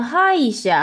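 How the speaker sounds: 哈一下 starting high, then dropping; front-high accent. Shown as a demonstration. Teacher adds a prefix to the word, 哈一下 high at the front. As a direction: hit the first sound of 哈一下 high. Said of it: "它会变成前高音".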